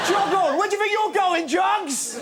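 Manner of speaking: high, loud mocking jeer; rude baby jeering. Rude baby jeering at mother, high loud taunt. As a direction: heckle like a lout.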